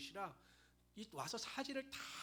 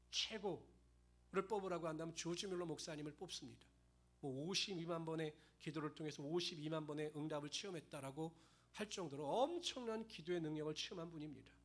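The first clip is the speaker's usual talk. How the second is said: ordinary talk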